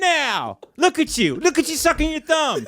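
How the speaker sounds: high, mocking baby-talk voice.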